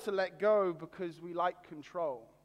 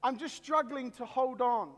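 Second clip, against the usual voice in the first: excited shout; 3 semitones higher than usual. Acted. Man on the cliff answering God, overjoyed. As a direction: answer thrilled that he was heard. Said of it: "he shouted out".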